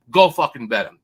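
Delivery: loud barked order to go bet; rallying shout. Real, not acted. Host to listeners, a loud rallying shout. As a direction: pump the crowd up, full volume.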